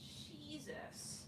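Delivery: very quiet, slow grumble to herself; exasperated aside. Real, not acted. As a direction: drop right down to a hushed, drawn-out aside. Fed up with noise outside.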